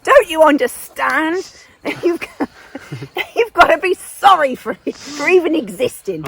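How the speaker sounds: hammed-up outrage, laughing between phrases; English colonial bully. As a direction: scold them as an indignant English invader. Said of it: "the English came in and said".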